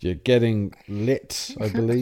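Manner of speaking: put-on very old man. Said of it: "you did sound like a very old man".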